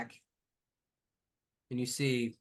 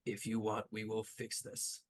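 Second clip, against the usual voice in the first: quiet, gentle promise; soft reassurance; 8 dB quieter than usual. Acted. Partner gently interrupts to reassure her.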